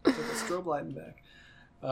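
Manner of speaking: high put-on city guy voice; character voice. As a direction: voice the party-loving NPC high. NPC voiced, high and far.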